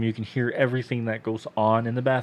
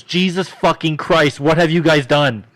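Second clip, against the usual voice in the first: shocked outburst; 5 semitones higher, 7 dB louder, slower than usual. Retold or imitated. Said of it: "And he goes".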